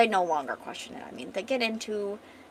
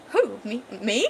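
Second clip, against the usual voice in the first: flustered surprise; 4 dB louder than usual. Acted. Lad flustered, retake after laughing.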